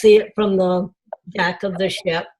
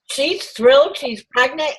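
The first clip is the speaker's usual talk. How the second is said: higher-pitched, questioning surprise; retold disbelief; 6 semitones higher than usual. Mother questioning daughter's news about her sister, surprised. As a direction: replay a mildly incredulous double-take. Retelling own reaction to pregnancy news.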